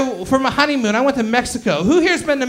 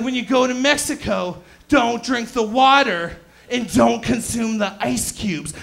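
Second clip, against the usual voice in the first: put-on terrible Portuguese accent. Family warning him about Mexico, mock Portuguese accent. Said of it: "that's a terrible Portuguese accent".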